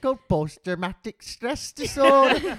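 museum voice actor. Retold or imitated. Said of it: "really bad voice actors".

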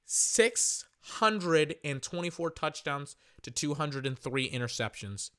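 slowed down, word by word; slow and deliberate. Shown as a demonstration. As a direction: spell it out slowly. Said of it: "Let me repeat".

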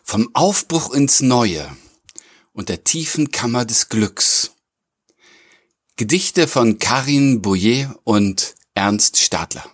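slow, measured episode intro; podcast title announcement. Acted. Host presenting the episode and its poets to listeners, measured announcement. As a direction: announce it in spaced, deliberate phrases.

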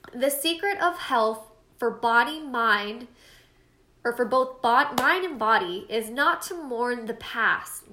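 halting read that trips over "bod-" and restarts; stumbling quote reading. Shown as a demonstration. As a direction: read the quote unsure, tripping over words. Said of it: "Sorry, guys, I totally butchered that".

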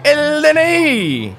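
high, slow, drawn-out hint; pointed hint. Acted. Poll worker hinting at the ID to his clueless partner, slow and pointed. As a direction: spell out "El D N I" slowly and pointedly.

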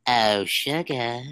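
slow, sweet cherub purr; angel voice. Retold or imitated. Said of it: "Let me do my angel voice".

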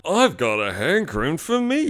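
mock zombie voice. Zombie hunter line.

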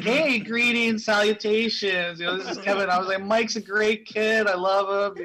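overly nice Canadian dad voice; Canadian accent. Retold or imitated. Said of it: "you're just talking a nice Canadian accent".

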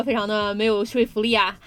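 ordinary talk

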